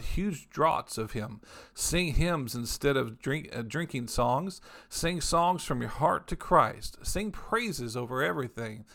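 slow, solemn reading of scripture. Acted. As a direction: read each phrase out slowly, with weight. Reads Message scripture aloud.

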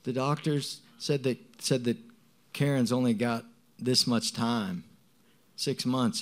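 lightly frustrated quote of a relative's alarm; retold fretting. Relative passing on the doctors' news, retold fretting. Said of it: "I was kind of frustrated with her, always going".

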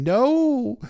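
loud, very high drawn-out squeal; horrified squeal. A narrator's reading. Sam realising the messages were never sent, horrified squeal. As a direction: squeal it out in horror. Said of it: "Samuel starts squealing".

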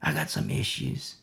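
put-on a troubled young man admits his struggles to his pastor; Timothy opening up. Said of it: "there's sincerity behind it".

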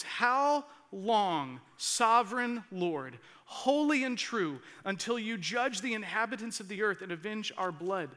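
loud, slow, pleading cry to God. Acted. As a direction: call out loudly, drawn out, pleading. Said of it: "They called out in a loud voice".

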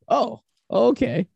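slow, high drawn-out oh; dazed realization. Retold or imitated. Realizing he ate the edibles, slow and high. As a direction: let it dawn slowly.

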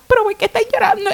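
high-pitched concerned question; retold concern. Doctor asking the crying mother, high concerned voice. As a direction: act out a startled, caring question.

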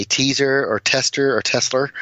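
the surname misread as "teaser", "tester", "Tessler"; common mispronunciations. Shown as a demonstration. Patron lists what drives him nuts, misreadings "teaser", "tester", "Tessler". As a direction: list "teaser", "tester", "Tessler" as botched name readings. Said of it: "As long as you don't do what most people do".

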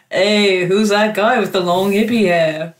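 low, slow, botched Scouse; poor Liverpool accent. Acted. Co-host voicing an alien version of a band, in a failed Liverpool accent. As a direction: have a bad go at Liverpudlian. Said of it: "I can't do the accent".

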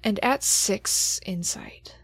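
intense, measured narration with pauses; game master scene setting. Acted. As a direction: lay the character's soul bare, building dread. GM narrates the creature encounter.

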